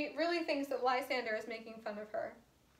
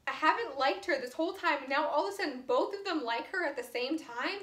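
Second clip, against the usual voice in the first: confused; 4 semitones higher, 3 dB louder than usual. Retold or imitated. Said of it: "She's really, really confused".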